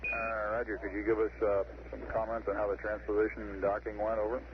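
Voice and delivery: crackly radio transmission; over a distant radio link; space radio beeps. Real, not acted. Mission control radio call.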